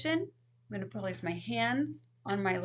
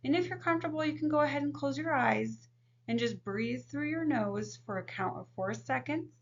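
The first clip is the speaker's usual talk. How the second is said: calm counselor voice. Shown as a demonstration. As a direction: guide the client gently through breathing. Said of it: "If we were working with a client".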